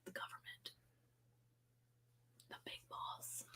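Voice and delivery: mock-ominous whisper; naming the big boss in a hushed mock-secret tone. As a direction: breathe it like a conspiracy. Joking about the government cutting power.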